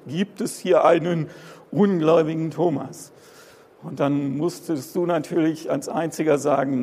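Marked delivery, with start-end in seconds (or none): 0.1-3.1 imitating the preacher. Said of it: "kam immer die Frage von vorne".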